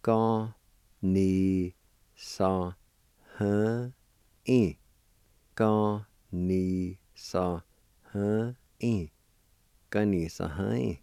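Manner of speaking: Ka ni sa, very slow, each syllable apart; call and response. Shown as a demonstration. Teacher drilling Ka ni sa with pauses for learners to repeat. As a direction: drill Ka ni sa with the class. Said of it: "it's pronounced like this".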